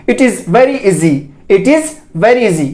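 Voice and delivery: slow model sentence, EASY with Z; demonstrated Z sound. Shown as a demonstration. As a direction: say "easy" slowly as "eezee" in the sentence. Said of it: "ईजी नहीं, ईजी". (easy में ज़ की ध्वनि, धीरे)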